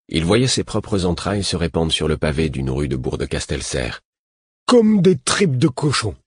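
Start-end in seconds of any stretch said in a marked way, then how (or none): 4.7-6.2 put-on high, loud, panicked childlike voice; a scared man-child blurting out his terror; terrified simple man. A narrator's reading. Simple man to the narrator, afraid of the killer, panicked high voice.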